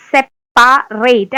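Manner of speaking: സെപ്പറേറ്റ് split slowly syllable by syllable. Shown as a demonstration. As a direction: spell it out slowly, സെപ്പ-റേറ്റ്. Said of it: "അങ്ങനെ പഠിക്കാം". (സെപ്പറേറ്റ് പതുക്കെ പിരിച്ച്)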